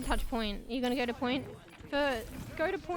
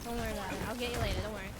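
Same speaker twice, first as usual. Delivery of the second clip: reassuring; 5 semitones lower than usual. Real, not acted. Consoling teammate.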